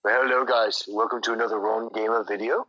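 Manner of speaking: lightly mocking Indian accent; playful put-on Indian accent. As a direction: imitate a video intro in an Indian accent. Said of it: "loves to do an Indian accent".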